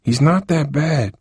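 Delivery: slow pleading defence. A narrator's reading. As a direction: insist gently, drawing it out. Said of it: "Harold pleaded".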